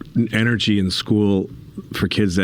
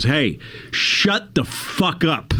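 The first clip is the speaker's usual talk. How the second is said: imitating a shout; 7 semitones higher, much slower than usual. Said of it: "He goes".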